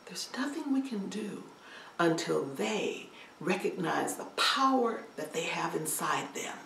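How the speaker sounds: elder whispering wisdom. Acted. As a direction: breathe it gently to her. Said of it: "He said".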